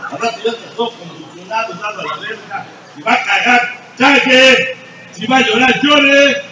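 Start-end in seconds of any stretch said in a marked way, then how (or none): 3.0-6.4 loud, higher, each order barked out; commanding shout. Real, not acted. AA sponsor ordering the members to cry properly, loud barked commands. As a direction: bark the commands like a drill sergeant.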